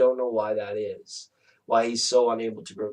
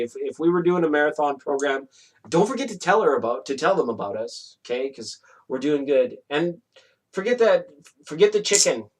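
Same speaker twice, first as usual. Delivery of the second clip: pet talk; 3 semitones higher than usual. Real, not acted. Keeps talking to her pet.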